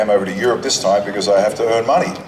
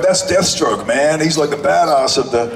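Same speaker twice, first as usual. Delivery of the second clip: excited fan; 5 semitones higher than usual. Retold or imitated. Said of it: "and he went".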